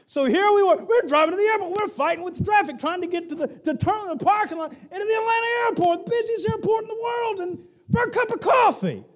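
high, loud, fast exasperation; exasperated. Real, not acted. Pastor venting about the airport drive, high and fast.

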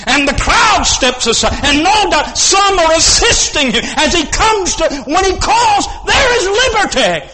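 rising sermon shout; building preaching climax. Acted. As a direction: lift the room with it.

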